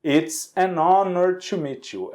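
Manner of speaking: "an honor" linked, N running straight into the O; silent H in "honor". Shown as a demonstration. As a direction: leave out the H in "honor". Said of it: "Se o H não fosse pronunciado".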